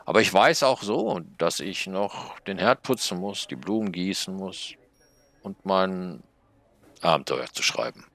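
a tiny snail playing the conscience; scolding little snail. Snail lists chores. (hohe, langsame Schneckenstimme, tadelnd)

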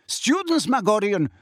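high, heated scorn; disdainful, agitated centaur; contemptuous. A narrator's reading. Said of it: "interrupted Bane contemptuously".

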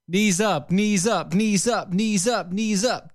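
rising chanted coach calls; drill coach. Pretend. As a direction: pump them up with a chant. Chanting workout coach orders.

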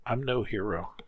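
soft, broken whimper; refusing praise with a whimper. Acted. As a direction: barely get it out, ashamed. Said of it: "and whimpered".

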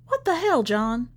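high, loud shocked burst; jolted awake and outraged; startled outrage. Acted. Woken ex finds him at door.

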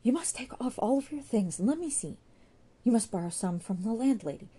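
put-on frightened girl pleading in wet clothes; Sue's voice. Sue begs Jude not to tell the landlady, urgent.

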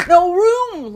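high, loud pig wail; snort, then wail it; piggy lament. A narrator's reading. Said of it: "lamented Roly Pig".

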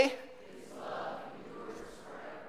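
congregation reading together; many voices in unison. Real, not acted. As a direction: crowd reciting in unison. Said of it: "So you'll read what is in gold".

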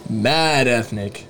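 slow, deliberate "Mad ethnic" said crisply; clean slow drop-in. Shown as a demonstration. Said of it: "say mad ethnic really clean".

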